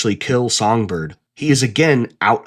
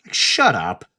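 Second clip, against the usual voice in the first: little twang. Real, not acted. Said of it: "I said that with a little twang".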